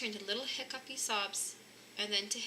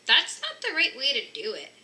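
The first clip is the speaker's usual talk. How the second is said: bossy cub; 5 semitones higher, 8 dB louder than usual. A narrator's reading. Cub Ted correcting, higher voice.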